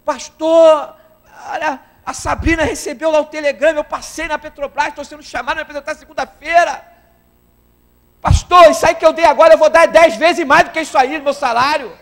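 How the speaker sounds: high, loud, crying with joy; a man weeping with joy telling the pastor; tearful joy. Retold or imitated. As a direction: burst out with tearful good news. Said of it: "ele entrou chorando".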